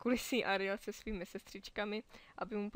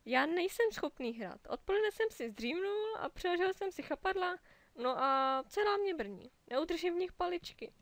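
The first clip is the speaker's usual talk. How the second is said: higher, worried rush of words; flustered octopus; 8 semitones higher, 5 dB louder than usual. Acted. Benny explains his numb tentacles, flustered. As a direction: pour out the problem in a fluster.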